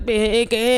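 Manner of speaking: short repeated "eh" sounds; baffled little grunts, mimicked; imitated baffled noises. Celebs faced with a deadbolt, mock baffled "eh" noises.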